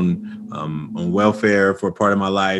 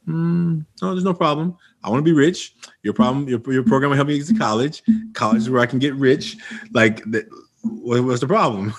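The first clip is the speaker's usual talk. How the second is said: put-on indignant teen; 4 semitones higher than usual. Teen self protesting to counselor.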